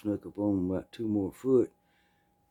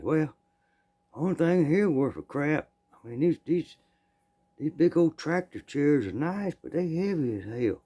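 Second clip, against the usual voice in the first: thief's voice; 6 semitones higher than usual. Retold or imitated. Thief voiced in retold story.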